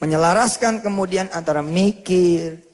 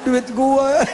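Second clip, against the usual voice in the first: put-on childish whine; 8 semitones higher, 4 dB louder than usual. Child's complaint about his money.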